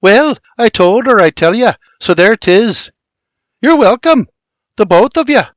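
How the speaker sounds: high, cheeky grin in the voice; sarcastic little sister. A narrator's reading. Little sister teases her brother, sarcastic. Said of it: "With a sarcastic little sister grin".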